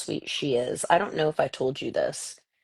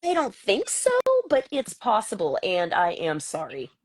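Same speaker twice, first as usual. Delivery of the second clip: put-on child's hedged apology; 6 semitones higher than usual. Son taking blame he doesn't remember, hedging apology. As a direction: imitate a boy doubtfully saying sorry. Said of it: "and Milo was like".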